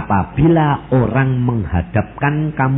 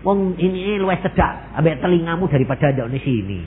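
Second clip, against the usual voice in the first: higher, quick puzzled grumble; pitched-up impatient mock complaint; a believer griping that God does not hear; mock doubtful thought; 4 semitones higher than usual. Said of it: "nek kowe mikir terus".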